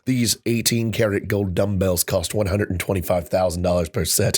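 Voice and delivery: measured, low-pitched blurb reading; reading product copy aloud. Real, not acted. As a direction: read it off the list like a catalogue blurb.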